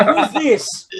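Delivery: high, startled question; mock alarm. Person answering the prank call, high mock alarm. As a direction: squeak it like a spooked victim.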